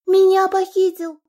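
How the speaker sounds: high, loud desperate cry, slowing on помоги; panicked cry for help. Acted. Kidnapped Lana crying to her father for help, panicked. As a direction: scream for your father's help.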